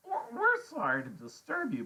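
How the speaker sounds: high kid voice attempting formality; trying to sound grown-up. A narrator's reading. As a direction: stammer a would-be adult apology. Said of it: "make his voice sound deep and more grown".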